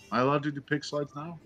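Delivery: mock timid asking. Player asking bandmates before a pick slide, mock timid. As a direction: ask permission in a small, hushed voice.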